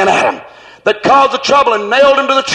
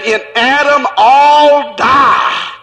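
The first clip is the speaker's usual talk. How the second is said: slow proclamation; much slower than usual. Shown as a demonstration. Preacher quoting scripture to the congregation, slow. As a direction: draw each word out slowly. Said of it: "it said".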